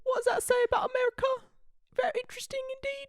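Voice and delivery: quick, high mock-British voice; fake British accent. Musing about America, high quick fake British accent. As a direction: muse rapidly in a tiny British accent. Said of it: "the way they do their fake accents".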